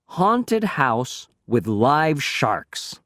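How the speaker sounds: slow, grand announcement; flyer slogan. Acted. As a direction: sell it like a poster headline.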